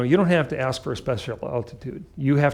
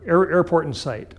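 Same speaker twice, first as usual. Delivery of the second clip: pilot over the radio; 5 semitones higher, 4 dB louder than usual. Retold or imitated.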